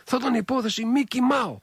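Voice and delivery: sly smiling Mikis. Retold or imitated. Mikis answers Giorgos's question about Mao, sly and smiling. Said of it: "με το πονηρό χαμογελάει".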